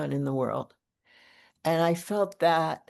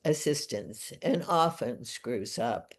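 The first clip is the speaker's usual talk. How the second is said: measured poetry recital with deliberate pauses; poem reading; 2 semitones lower than usual. Acted. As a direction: read your own poem aloud, phrase by phrase. Reads own poem aloud.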